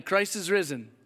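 ordinary talk

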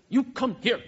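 loud firm call; stern parent command. Retold or imitated. Parent ordering a toddler over, loud and firm. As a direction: demand the kid come now. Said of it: "Or, or this one".

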